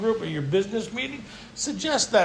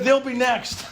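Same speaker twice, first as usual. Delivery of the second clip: mock shout; 5 semitones higher, slower than usual. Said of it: "I said".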